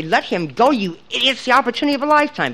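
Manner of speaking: a held-back shriek acted out, climbing high and quickening; imagined mock shriek. Grandmother wanting to shriek at her son, mock shriek rising high. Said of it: "I wanted to shriek at him".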